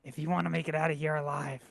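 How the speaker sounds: low, halting delivery with long pauses; lightly acted last words, trailing and subdued; dying messenger. Player's character breaking bad news while dying, low halting voice.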